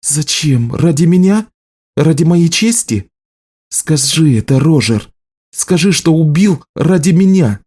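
high-pitched, heated questioning; incredulous challenge. A narrator's reading. Healer challenges the juggler's motive, high indignant voice. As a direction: demand it with rising, bitter disbelief.

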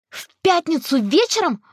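high startled question; exclaiming. A narrator's reading. Girl realizes the date, high and startled. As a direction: it dawns on her, alarmed. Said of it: "воскликнула я".

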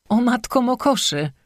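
high, excited squeal; wife squeals, excited to tell her husband; excited squeak. Acted. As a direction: squeak with joy at the news. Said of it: "pisnęła".

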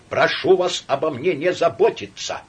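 high, loud, strained plea; agitated. Acted. Laevsky snapping at his friend, agitated. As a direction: push them away, voice rising.

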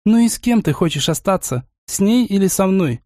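a hint of threat in the question; jealous fiancée demanding he choose, lightly voiced; menacing voice. A narrator's reading. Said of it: "спросила меня грозным голосом".

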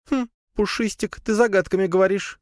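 high spider voice, teasing; squeaky spider poking fun. Acted. Spider teases cat. (высоким голоском, дразня)

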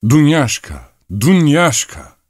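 high-pitched calling shout; sudden yell. A narrator's reading. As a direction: holler for a servant, stretching the name. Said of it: "birdenbire olanca sesiyle haykırıverdi".

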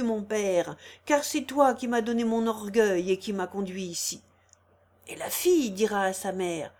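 forceful fire-and-brimstone sermon; menacing, swelling the words; preaching. Acted. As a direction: declaim it like an old priest threatening sinners. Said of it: "d'une voix forte, s'animant comme s'il eût prêché".

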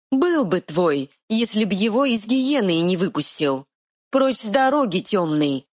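high, quick fairy voice; tiny fairy retort. Acted. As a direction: snap back like a tiny fairy. Fairy commands.

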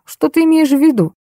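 high-pitched, guarded question; wary. A narrator's reading. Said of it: "насторожился Дегтярев".

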